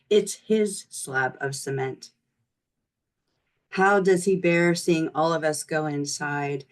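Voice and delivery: measured poem reading, firm starts to lines; poetry reading. Acted. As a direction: recite your poem to listeners line by line. Reads own poem aloud.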